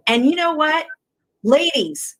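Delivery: hushed, breathy secret to the listeners; whispered aside. Real, not acted. Whispering to the ladies before the beauty tip. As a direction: lean in and whisper it.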